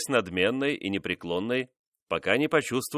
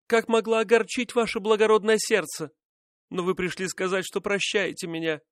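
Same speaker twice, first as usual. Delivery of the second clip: much higher, urgent repentant woman's voice; pleading favourite; 10 semitones higher than usual. Acted. Royal mistress apologising to the king, high pleading. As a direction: beg forgiveness in a high, rushing voice.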